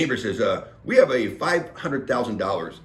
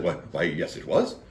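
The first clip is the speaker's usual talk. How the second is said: condescending; 7 semitones lower, 5 dB quieter than usual. Retold or imitated. Woman answering the snotty man's question, condescending. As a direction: answer as if talking down to him. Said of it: "responded in another condescending tone".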